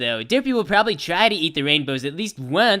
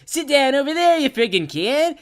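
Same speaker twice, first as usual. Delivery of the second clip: mom's order; 7 semitones higher than usual. Retold or imitated. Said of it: "Mommy says".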